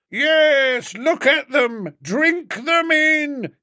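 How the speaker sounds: high, slow, drawn-out street-orator yell; yelling agitator. A narrator's reading. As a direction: rouse the crowd, pointing them out. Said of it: "he was yelling".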